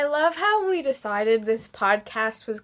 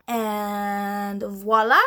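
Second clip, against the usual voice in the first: dramatic voila; 3 semitones lower, much slower than usual. Acted.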